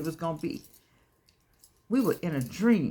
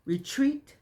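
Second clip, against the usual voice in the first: call and response; slower than usual. Shown as a demonstration. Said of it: "Come on, say it with me".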